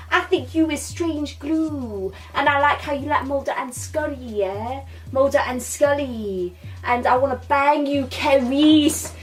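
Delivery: a hint of a Welsh lilt wooing Cerys; Welsh accent. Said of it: "I'm going into my Welsh accent".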